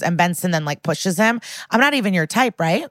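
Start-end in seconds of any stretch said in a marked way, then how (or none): 1.7-2.9 mildly smug retold taunt, lilting up; retold quote with a touch of smugness. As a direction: lightly act out a smug needling. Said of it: "she's acting smug as hell".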